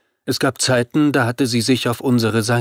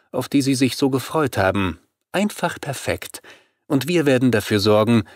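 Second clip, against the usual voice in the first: vampire leader, confident; 4 semitones higher than usual. Acted. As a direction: savour the plan as the vampire boss, pitched up. Narrator voices confident vampire leader.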